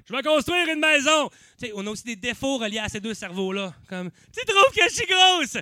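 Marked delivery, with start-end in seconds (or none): 0.1-1.3 high, loud hammed-up proclamation; mock bold declaration. Comic voicing a dreamer's big plan, hammed-up loud. Brain's qualities voiced as boast. 4.3-5.6 high, loud, drawn-out mock complaint; mock insecure question. Comic mimicking insecure partner asking, high and drawn out. Mocking a brain's flaws.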